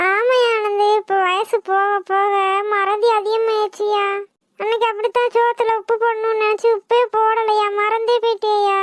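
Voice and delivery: understated tearful self-pity; acted tearfulness. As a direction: confess forgetfulness with a touch of crying. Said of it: "நீ எதுக்கு அழுகுற?".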